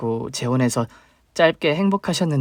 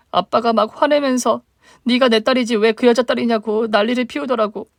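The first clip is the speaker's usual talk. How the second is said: higher, plaintive younger sister; 8 semitones higher, 3 dB louder than usual. Acted. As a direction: voice the hurt little sister reaching up.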